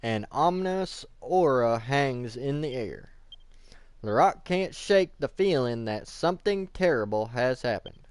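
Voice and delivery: measured, dramatic narrator read; ominous story narration. A narrator's reading. Narrating a night scream in town, ominous. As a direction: stretch out the suspense. Reads game narration aloud.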